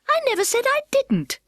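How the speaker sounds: Alice protesting the turtle; indignant interruption. Acted. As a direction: cut in quickly to object. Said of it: "interrupted Alice".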